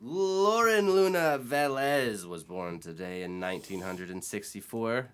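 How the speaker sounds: slow, showy announcer voice; announcer read. Acted. Host opening the birthday segment to the podcast crowd. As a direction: present the birthday like a broadcast.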